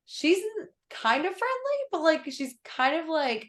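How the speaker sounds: put-on high, bright-eyed sassy girl voice; voicing her sassy self from the old launch; mock sassy voice.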